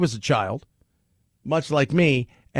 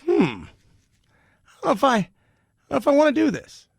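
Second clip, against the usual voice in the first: higher, slow, hesitant mock voice; mock doubter; 11 semitones higher than usual. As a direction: drawl out a doubtful hmm as if unsure. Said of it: "It's made people go".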